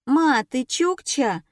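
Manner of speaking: lightly voiced little girl, drawn out; drawling child. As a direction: drawl it like a cheeky kid. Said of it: "протянула девочка". (протяжно, по-детски)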